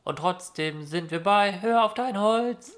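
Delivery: talking through a blocked nose; stuffy, blocked-nose voice. Real, not acted. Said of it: "meine Nase ist zu".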